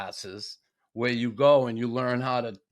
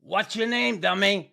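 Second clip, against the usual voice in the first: higher-pitched playful jab, nearly laughing; mock insult; 6 semitones higher than usual. Pitching a T-shirt slogan to friends, mock insult. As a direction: toss it out as a teasing catchphrase.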